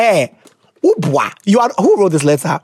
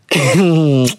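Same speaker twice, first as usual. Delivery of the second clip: low closed-mouth chuckle; amused hum of laughter; short laugh; 4 semitones lower than usual. Real, not acted. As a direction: let a brief laugh slip. Reacts to friends line.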